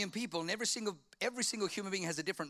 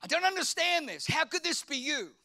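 a touch of pleading with God; 8 semitones higher, 3 dB louder than usual. Retold or imitated. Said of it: "I'm like".

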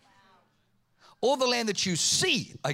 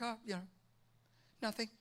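sheepish dodge; 12 dB quieter, faster than usual. Retold or imitated. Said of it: "I'm like".

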